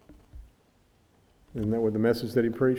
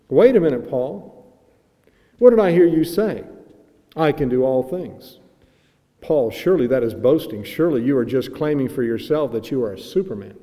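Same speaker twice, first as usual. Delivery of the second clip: the old preacher confronting the apostle with mock disbelief; dramatic old preacher; 2 semitones higher, 5 dB louder than usual. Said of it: "used sometimes to preach in a dramatic way".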